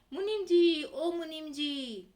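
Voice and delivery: loud high call, the second one drawn out slowly; shouting out a name. Acted. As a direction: call the accountant loudly across the house. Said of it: "वो चिल्ला के बोल रहे हैं".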